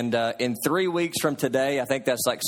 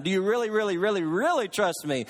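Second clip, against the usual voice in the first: higher, insistent retold question; voice from heaven; 5 semitones higher than usual. Voice from heaven tests dangling man, insistent calling out. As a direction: lean on each repeated "really". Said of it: "the voice cried out a third time".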